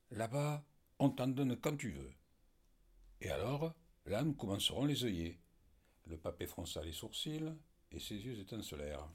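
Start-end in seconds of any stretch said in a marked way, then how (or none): 0.1-5.4 higher, louder burst of hope; excited. Acted. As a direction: fire up with a new plan. Hugolin dreams of new farm.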